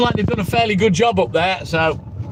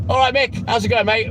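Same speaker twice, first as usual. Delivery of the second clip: lightly done cockney geezer greeting; a hint of a London geezer, barely changed; impression of Mick. Streamer to chat, lightly voiced cockney geezer greeting. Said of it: "uh, shit impression".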